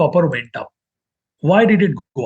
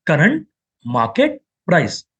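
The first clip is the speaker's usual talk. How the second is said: spelled out slowly; slower than usual. Shown as a demonstration. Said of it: "Why C M P?".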